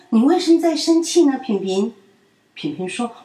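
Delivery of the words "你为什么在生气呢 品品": put-on high, loud, fast childlike question; concerned little friend asks; child asking. A narrator's reading. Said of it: "淘淘问". (孩子气地快问)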